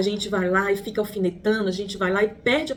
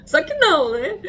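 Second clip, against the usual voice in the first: sarcastic; 7 semitones higher, 5 dB louder than usual. Real, not acted. Sarcastic punchline after laugh.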